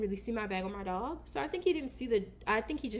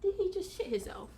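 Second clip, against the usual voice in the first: disgusted disbelief; 8 semitones higher, 6 dB quieter than usual. Real, not acted. Disgusted at the smelly dog.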